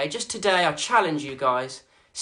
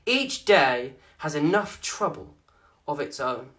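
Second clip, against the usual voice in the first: scripture reading. Acted. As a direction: read the passage like a gentle sermon. Reads key verse aloud.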